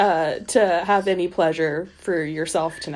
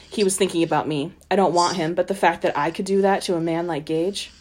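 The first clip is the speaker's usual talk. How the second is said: steady read-aloud of a novel passage; story narration; 3 semitones lower than usual. A narrator's reading. Co-host reads the book passage aloud, in measured narration. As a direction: read the chapter evenly to the listeners.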